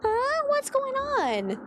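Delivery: high, slow cooing at the cat; high sing-song pet voice. Real, not acted. Cooing at her pets.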